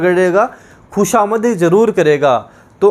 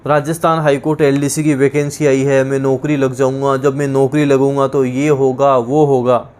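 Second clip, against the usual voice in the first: lower, dreamy student boasting of plans; daydreaming student; 5 semitones lower than usual. Retold or imitated. Teacher mocking students who only dream of jobs, lower and dreamy. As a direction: mimic a student daydreaming about a job. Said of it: "आजकल कई student क्या करते रहते हैं".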